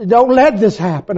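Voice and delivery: urgent repeated prayer; rising plea. Retold or imitated. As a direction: push the plea harder. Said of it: "I prayed and I cried to the Lord".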